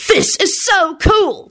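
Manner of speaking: put-on high, drawn-out kid's cheer; high-voiced gleeful child; excited yell. A narrator's reading. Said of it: "Timothy yelled".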